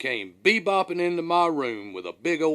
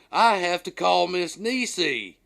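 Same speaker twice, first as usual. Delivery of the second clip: alarmed realization; 6 semitones higher, 4 dB louder than usual. Retold or imitated. Urgent realization about calling wife.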